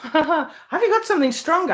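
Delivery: laughing through a cheeky question; giggling while offering a stronger drink; laughing joke. Real, not acted. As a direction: tease them, laughing as you ask.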